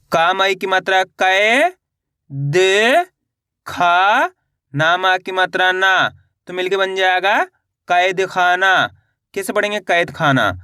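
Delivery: drawn-out syllables rising at the end, then the word falling; spelling drill. Shown as a demonstration. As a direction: sound it out slowly for beginners, stretching each syllable. (मात्रा जोड़कर खींच-खींचकर पढ़ाना)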